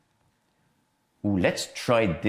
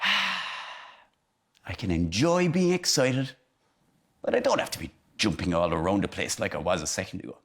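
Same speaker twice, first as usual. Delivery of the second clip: calm; 4 semitones lower than usual. Shown as a demonstration. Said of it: "take a deep breath".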